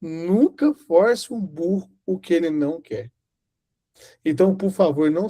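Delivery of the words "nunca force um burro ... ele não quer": slow emphatic. Shown as a demonstration. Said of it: "Eu vou explicar de novo".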